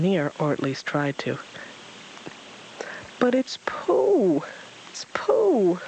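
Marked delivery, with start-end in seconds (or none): 3.2-5.8 slow high whispered yell; hushed excited cry; high breathless whisper. Acted. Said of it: "Roo yelled excitedly".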